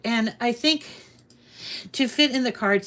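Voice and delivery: winded, short of breath; talking while catching breath. Real, not acted. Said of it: "sorry, I'm out of breath".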